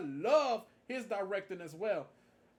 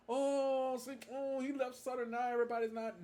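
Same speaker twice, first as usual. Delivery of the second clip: higher-pitched mimicked complaining; mock upset; 5 semitones higher than usual. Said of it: "we heard that people got upset".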